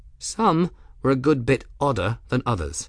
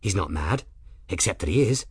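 lightly voiced dotty girl, pitch leaping about; chattering odd girl. Young woman assesses her patient aloud, lightly voiced dotty chatter. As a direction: chatter to no one in particular, lilting up and down.

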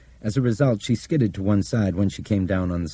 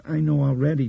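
put-on child voice; 10 semitones higher, 3 dB louder than usual. Child answers flatly.

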